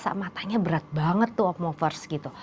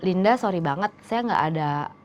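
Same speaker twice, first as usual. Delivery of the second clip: low mock apology; 4 semitones lower, 5 dB quieter than usual.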